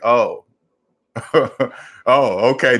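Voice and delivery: imitating a client's embarrassed little giggle; giggling oh okay; giggly realization. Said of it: "this particular type of laugh that'll make a click".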